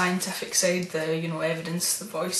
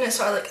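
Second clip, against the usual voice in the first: heavy audible breath, imitating a recording; voiceless breathy exhale; imitated breathing; much faster than usual. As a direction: breathe out like the eerie voice. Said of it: "it says breathing".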